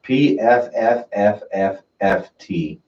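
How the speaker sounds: long dismissive raspberry; soft pff. Shown as a demonstration. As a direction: blow out a slow scornful pfft. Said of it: "My notes on this, I'm just gonna say it's".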